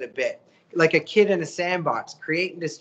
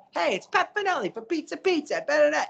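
radio spokesman voice; 10 semitones higher than usual. Retold or imitated. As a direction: ham up the radio pizza guy, way up high. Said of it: "So he's like".

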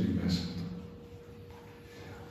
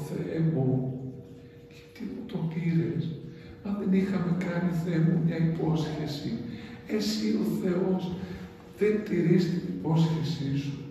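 higher-pitched anguished plea to God; a mother crying to heaven for her lost child; higher, pleading lament; grieving mother crying out; 5 semitones higher than usual. Acted. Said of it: "αρχίζει η μαμά να φωνάζει".

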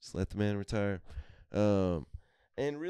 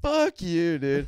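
higher, louder defiant shout; mock yell; 9 semitones higher, 7 dB louder, much slower than usual. Teenagers yelling back at the Pirates fan, hammed defiant shout. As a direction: shout it back at the old guy. Retold rude reply to fan.

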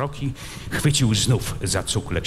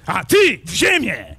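loud, slow, savage cry; terrible shout; 8 semitones higher, 5 dB louder than usual. Acted. Prince turns on Kmicic with a terrible shout. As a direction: roar it like a death sentence. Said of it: "krzyknął straszliwym głosem książę".

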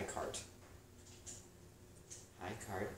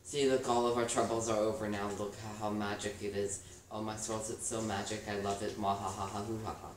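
loud gloating villain voice; mad scientist; 4 dB louder than usual. Pretend. Villain gloating over game creation.

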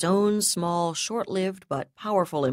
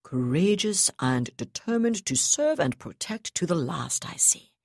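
contemptuous. Acted. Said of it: "observed contemptuously".

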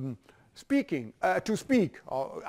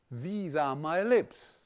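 slow model sentence; slower than usual. Shown as a demonstration. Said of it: "Watch it".

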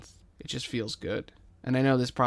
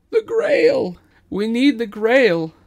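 much higher, loud chanting cry; crowd shout; 10 semitones higher, 13 dB louder, slower than usual. Acted. The people crying out to King, loud desperate shout.

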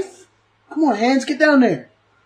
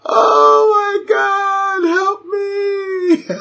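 nervous laughter; 8 semitones higher, much slower than usual. Real, not acted. Laughing-crying after the scare.

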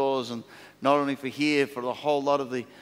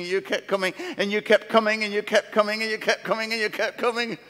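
building refrain; 8 semitones higher than usual. Real, not acted. Preacher builds repeated refrain.

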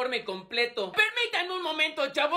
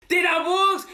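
excited shout; 3 semitones higher, 7 dB louder, slower than usual. Acted. Kid shouts the app name.

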